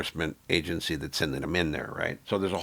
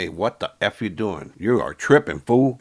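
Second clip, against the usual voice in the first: scolding call-out; 3 semitones higher, 7 dB louder than usual. Retold or imitated. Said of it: "Somebody must have checked him and told him".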